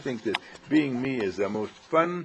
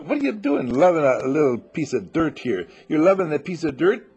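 mock incredulous; 2 semitones higher, 5 dB louder than usual. Mocking doubter questions her.

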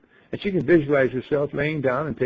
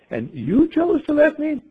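very high, slow, louder disbelief; incredulous; 4 dB louder than usual. Acted. Ingeborg astonished at the bird's answer, very high and slow. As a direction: stretch it out in shock. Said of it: "Ingeborg reacting to the bird".

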